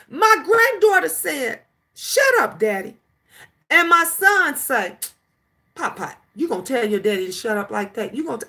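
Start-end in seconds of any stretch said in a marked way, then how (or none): 2.0-3.0 mock the little girl's cheek; a hint of sassy toddler. Granddaughter sassing her father. 5.7-8.5 fast, softer, half-laughing dad scolding; the too-soft father who thinks it's cute; soft playful dad. Retold or imitated. Son gently teasing his toddler, fast and soft.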